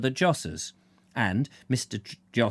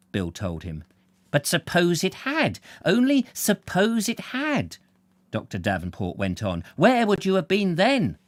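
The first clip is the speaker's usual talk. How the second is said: a lightly voiced stern doctor, higher and louder; indignant doctor; 6 semitones higher, 3 dB louder than usual. Older doctor scolds Bill for operating, indignant. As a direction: press the young man hard.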